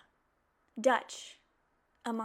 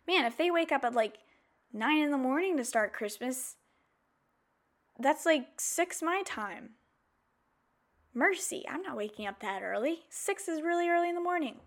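incredulous; 4 semitones higher than usual. Retold or imitated. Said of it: "But I was thinking".

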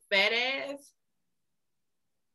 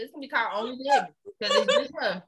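laughing through the joke; chuckling as she says it; 4 semitones higher, much faster than usual. Real, not acted. Joking, laughing while speaking.

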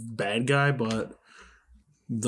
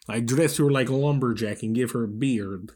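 put-on Russian accent; 3 dB louder than usual. Joking as the villain with a friend, mock Russian accent. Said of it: "when you do a Russian accent".

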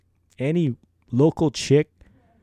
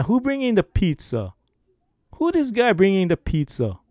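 mock indignation; 6 semitones higher than usual. Mock outrage at pizza.

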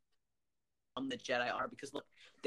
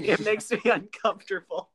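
squeaky giggling Padme quote; laughing high voice; 8 semitones higher, 6 dB louder than usual. Retold or imitated. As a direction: giggle through it, pitched up. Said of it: "And she's like".

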